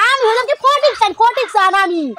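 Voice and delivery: shouting son-in-law. Acted. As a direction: yell it out to a deaf mother-in-law. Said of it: "আরে একটু আস্তে আস্তে কও".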